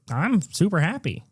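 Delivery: high, soft, sing-song happy voice; mock chirpy uncle. Uncle recapping a movie, high chirpy mock cheer. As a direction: mimic a falsely cheerful uncle. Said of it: "the uncle's like".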